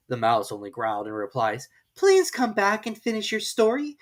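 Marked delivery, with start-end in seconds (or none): 1.9-4.0 higher, louder call; calling after. Acted. Alice calling to the mouse, louder. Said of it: "Alice called after it".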